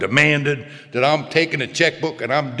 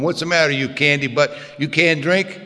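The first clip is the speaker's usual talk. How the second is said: retold drinking buddy's jeer; taunting. Old drinking buddies pester the man going home, taunting. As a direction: goad him with a slightly lifted voice.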